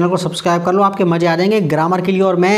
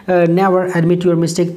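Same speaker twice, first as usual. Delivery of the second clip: slow model sentence; much slower than usual. Shown as a demonstration. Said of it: "teacher models English slowly".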